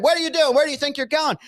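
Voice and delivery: high-pitched imitation of pursuing staff; alarmed mock challenge. Staff chasing the escaping patient, mock outraged. Retells people chasing him down.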